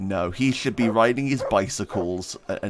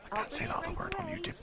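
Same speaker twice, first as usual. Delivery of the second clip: quick aside; 14 dB quieter, faster than usual. Real, not acted. Aside about censoring a word.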